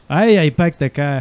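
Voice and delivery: faltering Boston attempt; hesitant Boston accent. Stu answering haltingly, attempted Boston accent. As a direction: try out Boston vowels uncertainly. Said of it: "for a Boston accent".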